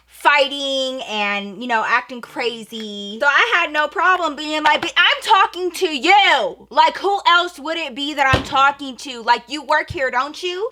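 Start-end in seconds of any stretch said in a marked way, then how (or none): 4.8-10.7 heated retort. Retold or imitated. Teen telling the cashier off at the register, heated and louder. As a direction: press her hard with each question.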